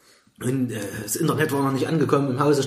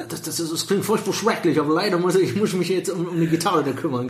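put-on American accent in German; 2 semitones higher than usual. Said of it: "Leute mit amerikanischen Akzent".

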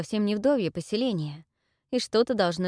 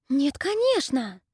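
indignant whisper; 7 semitones higher, 4 dB louder, slower than usual. Acted. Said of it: "возмущённо зашептала Салина".

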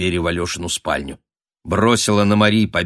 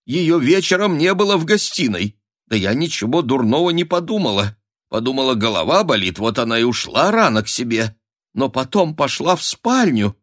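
high, anxious mother's voice; rising panic, voice climbing; a mother in night alarm; frantic countess; 6 semitones higher than usual. A narrator's reading. Mother explains, agitated.

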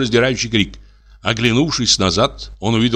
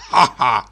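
short mocking laugh; 2 semitones higher than usual. A narrator's reading. Dubov scoffs.

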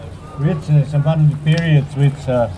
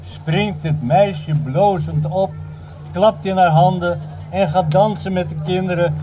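measured storytelling with dramatic pauses; poem recitation; 2 semitones higher than usual. Acted. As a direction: recite it phrase by phrase to an audience.

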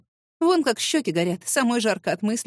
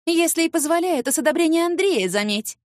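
snarling retort; 7 semitones higher than usual. A narrator's reading. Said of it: "окрысилась людоедочка".

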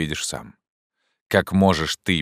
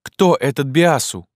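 much higher, rising alarm; questions tumbling out in horror, pitched up; terrified exclaim; 10 semitones higher, 5 dB louder than usual. A narrator's reading. Maria, horrified, demands answers, high frightened questions. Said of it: "воскликнула Мария в ужасе".

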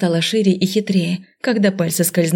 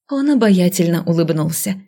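ordinary delivery, nothing marked

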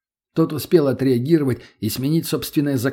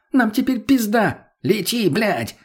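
high-pitched, frantic bark; angry roar; 10 semitones higher, slower than usual. A narrator's reading. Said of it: "рявкнул на неё тот".

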